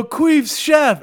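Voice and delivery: high, loud shouted reply; line cooks answering the chef together; cooks answering in unison. Pretend. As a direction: sound off like obedient recruits. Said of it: "they go".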